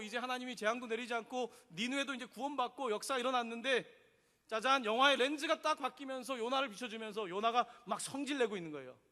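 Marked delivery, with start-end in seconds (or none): none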